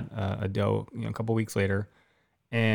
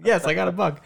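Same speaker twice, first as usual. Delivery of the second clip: smiling; 7 semitones higher than usual. Retold or imitated. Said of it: "With a smile on my face".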